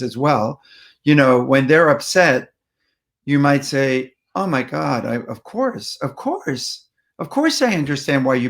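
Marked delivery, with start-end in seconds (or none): 4.3-8.5 mirror a little of their feeling, gently; measured empathy. Shown as a demonstration. Listener to someone upset, gently engaged empathy. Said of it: "mirroring a third of their emotion".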